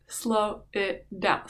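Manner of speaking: SLOW IT DOWN stretched out word by word; drawn-out slowing. Retold or imitated. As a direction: say "slow it down" very slowly, each word dragged. Repeats it, acting out slowing down.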